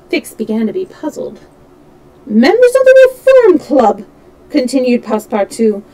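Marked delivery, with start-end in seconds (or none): 2.2-4.0 high, loud exclamation; excited scoffing. A narrator's reading. Tipsy servant scorns club gentlemen, excited scoffing. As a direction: cry it out pitched right up.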